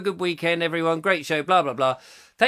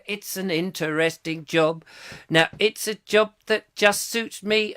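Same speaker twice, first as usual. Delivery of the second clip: An impression of a singer; 2 semitones higher than usual. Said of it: "that was a good George Smiley".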